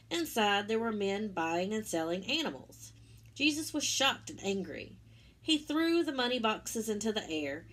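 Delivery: gentle storybook narration; reading to children. Acted. Teacher reading the Easter story to children, storybook voice. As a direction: tell it warmly to little ones.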